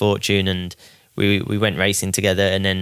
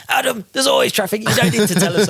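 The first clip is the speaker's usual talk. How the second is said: put-on higher, exasperated German-accented team voice; 12 semitones higher, 4 dB louder than usual. German team on the radio telling Adam off, German accent. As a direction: tease him in a weary German accent. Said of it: "with the German accents".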